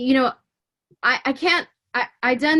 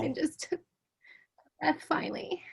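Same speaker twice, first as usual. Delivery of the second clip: breathy whisper; barely voiced relief; 6 semitones higher, 9 dB quieter than usual. Real, not acted. Emotional retelling, breath returns.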